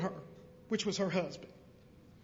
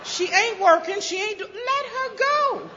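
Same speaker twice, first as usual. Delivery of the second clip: higher, slow, exasperated dismissal; fed-up father; 10 semitones higher, slower than usual. Retold or imitated. Father tells the mother to let their daughter leave, exasperated and slow. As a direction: wave her off, done with her. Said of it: "My father said".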